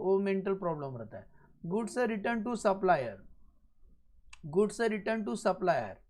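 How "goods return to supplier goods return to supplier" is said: very slow, drawn-out words; slow dictation. Real, not acted. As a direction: dictate it slowly for note-takers. Teacher dictates the entry while writing. (धीरे-धीरे लिखवाते हुए)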